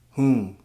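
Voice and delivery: whom, the Philly way of saying home, drawn out; slow Philly whom; Philly pronunciation. Shown as a demonstration. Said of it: "Here you will find words like".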